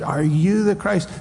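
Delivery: high jeering taunt; mock yelling crowd. Seventy men yelling at the beaten Jesus. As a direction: jeer at him like a mocking crowd. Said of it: "yelling at him".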